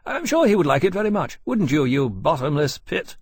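high, lively, fond teasing; affectionate. A narrator's reading. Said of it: "he went on affectionately".

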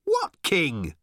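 high shouted question. A narrator's reading. Arthur questioning Ford mid-gallop, shouting. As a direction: call it out, puzzled. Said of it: "shouted Arthur".

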